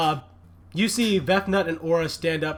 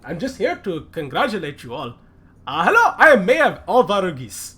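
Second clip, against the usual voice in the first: flustered then beaming, a bit louder; mayor greeting with a smile; 2 semitones higher, 5 dB louder than usual. Acted. Mayor calming armed adventurers, then smiling. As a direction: wave off the threat and beam at the heroes. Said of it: "he says with a smile".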